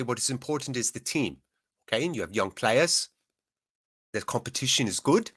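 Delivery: rough Danish accent, lightly put on; a rough first try at Danish-accented English; Yandale impression. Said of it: "a very good Yandale impression ... the rough version".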